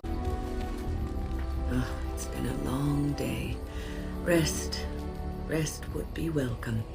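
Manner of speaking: tired sigh, then a slack, unhurried delivery; weary. Acted. Older companion admits needing rest, weary. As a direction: let the long day weigh on the words. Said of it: "I am just a little weary".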